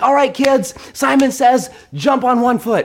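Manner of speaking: mimicking daughter. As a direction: call out to the kids like the game leader.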